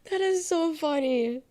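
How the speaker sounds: high, slow, stretched-out take; mock amused. Streamer rereads chat in a high, slow mocking voice.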